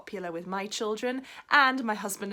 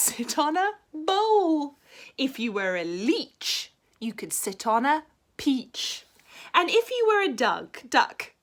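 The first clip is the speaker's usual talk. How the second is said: gleeful frog; 7 semitones higher, 8 dB louder than usual. Acted. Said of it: "smiled the frog".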